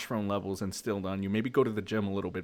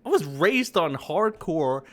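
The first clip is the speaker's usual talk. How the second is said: higher, louder bragging; 4 semitones higher, 4 dB louder than usual. Real, not acted. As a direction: brag it forcefully. Loud boasting.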